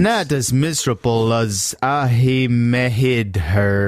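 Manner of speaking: slow phonetic New York; bad New York accent. Reading the phonetic film line, bad New York accent. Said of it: "speaking with really bad accents".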